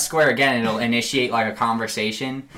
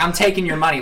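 laughing mock Arthur; 6 semitones higher, faster than usual. Friend laughs while quoting Arthur robbing people. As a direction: giggle while quoting the cowboy.

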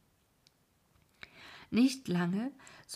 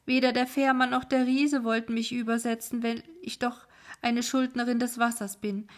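put-on distraught old woman; 3 semitones higher, 5 dB louder than usual. Old woman laments her loss.

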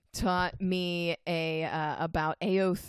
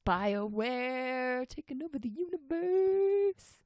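mock epic; 5 semitones higher, slower than usual.

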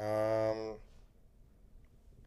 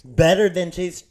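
incredulous; 5 semitones higher, 13 dB louder than usual. Real, not acted. Friend disputes a music ranking.

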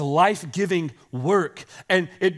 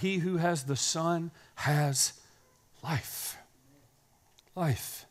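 softer, slow, almost breathed; hushed reverence; 4 semitones lower, 6 dB quieter, slower than usual. Real, not acted. Pastor to congregation about life, hushed and slow. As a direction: let it sink in quietly.

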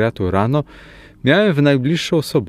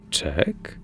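puzzled echo; 6 semitones lower, 9 dB quieter than usual. A narrator's reading. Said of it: "powtórzyła echem".

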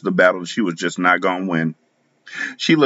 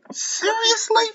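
hissed disbelief; much slower than usual. A narrator's reading. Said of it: "I hissed".

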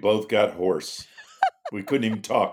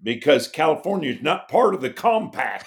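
laughing retelling; 5 semitones higher, 3 dB louder than usual. Retold or imitated. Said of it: "he goes".

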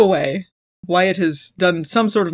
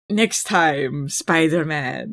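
put-on Russian accent; 4 semitones lower, 3 dB quieter, much slower than usual. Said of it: "Whatever his accent was. I think he was Russian".

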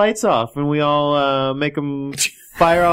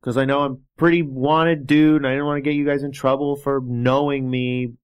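subdued, sorry autograph seeker; apologetic fan; 4 semitones lower than usual. Acted. Plays apologetic wanted fan.

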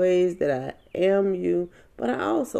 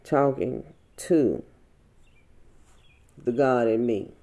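in tears; 5 semitones lower than usual. Real, not acted. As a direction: hold back the tears as you speak. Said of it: "I'm just in tears".

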